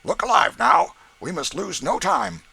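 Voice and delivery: loud brisk order; Haley urging. A narrator's reading. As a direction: push them to hurry. Haley hurries them.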